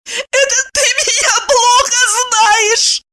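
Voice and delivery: high, slow crying squeak; tearful high squeak. A narrator's reading. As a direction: squeak it through tears. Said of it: "пискнула Евдокия".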